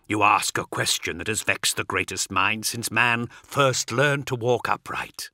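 cryptic dark apostle, lightly acted; understated oracle-like character voice; lightly voiced cryptic apostle. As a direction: answer like a grave sage, measured. Voices Cartho in dialogue.

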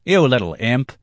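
scolding. A narrator's reading. Black-haired man scolds the boy, loud rebuke. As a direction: scold the imp loudly.

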